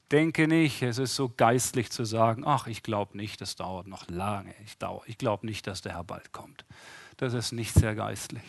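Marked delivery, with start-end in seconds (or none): 2.5-6.7 mock quiet dismissal. Mocking pious doubter.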